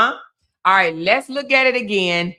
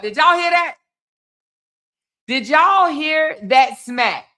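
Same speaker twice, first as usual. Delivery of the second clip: stunned; 5 semitones higher than usual. Real, not acted. Host stunned by the smack.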